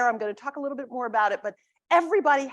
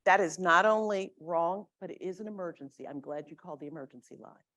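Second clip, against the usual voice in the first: put-on Virginia accent; 5 semitones lower than usual. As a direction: lightly imitate a Virginia dispatcher's accent. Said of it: "with his Virginia accent interrupts me".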